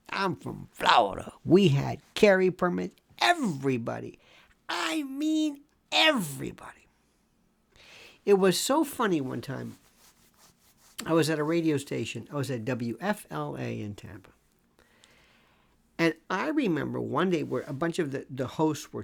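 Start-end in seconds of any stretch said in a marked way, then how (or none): 4.7-6.9 whispered everybody, trailing off; whispered aside. Real, not acted. Host recalls everyone carrying, whispered aside. 12.3-14.3 softly whispered station detail; hushed aside. Real, not acted. Host names his old station, whispered.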